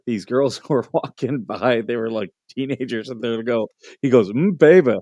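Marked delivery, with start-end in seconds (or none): 4.3-4.9 put-on a loud little kid's leering "Mm, baby"; mock deep-voiced kid. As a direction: play the little punk hitting on teenage girls, louder. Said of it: "And he had such a low voice".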